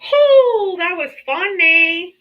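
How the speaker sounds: giggling through the words; laughing. Real, not acted. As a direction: laugh it out slowly. Laughing after a joke.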